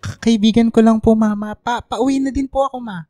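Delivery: a scared son stammering to his mother; nervous stammer. Acted. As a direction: stutter your way through the lie. Son caught lying to mother.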